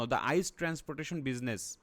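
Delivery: very slow, word by word; teacher reading an English statement very slowly, piece by piece; broken-up reading. Shown as a demonstration. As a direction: read it out chunk by chunk for the class. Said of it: "ভেঙে ভেঙে একটু স্টেটমেন্টটা পড়ে নিই".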